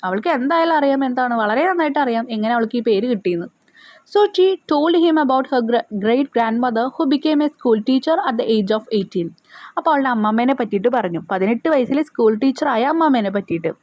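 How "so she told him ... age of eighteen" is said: slow, careful reading aloud; slow textbook reading. Shown as a demonstration. Teacher reading the lesson to pupils, slowly. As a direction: read each word out slowly for pupils.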